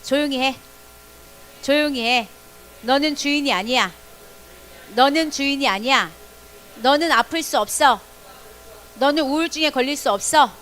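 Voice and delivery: a stern order spoken to your own body; firm command. Shown as a demonstration. Leading children in commanding their own body, firm command. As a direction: tell your body firmly who is boss. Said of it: "자기 육체를 향해서 명령하는 거예요".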